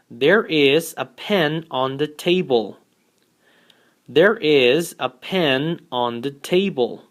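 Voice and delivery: slow, clear model sentence for learners. Shown as a demonstration. Teacher reading an example slowly to the class. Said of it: "we have".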